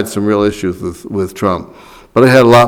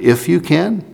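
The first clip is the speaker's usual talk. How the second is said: incredulous echo; 6 semitones higher, 5 dB quieter than usual. Retold or imitated. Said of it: "And Christ said, "Well, wait a minute".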